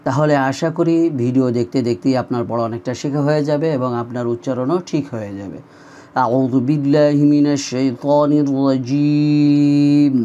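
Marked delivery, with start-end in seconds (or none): 6.3-10.2 measured, careful Quranic recitation; unhurried devotional reading; slow recitation. Acted. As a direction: recite slowly, each syllable clear. Recites the opening formulas.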